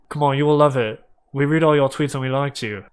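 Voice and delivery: quick, run-together character line; fast talker. Acted. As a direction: hurry through it in character. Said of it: "he is so fucking fast".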